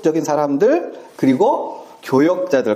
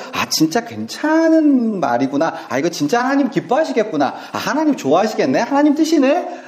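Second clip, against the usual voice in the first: a lightly voiced, eager believer, rising high at the end; taken-in listener; 7 semitones higher than usual. Deceived churchgoer hearing false teachers, mildly enthusiastic. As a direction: sound won over by smooth words. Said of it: "들을 때는".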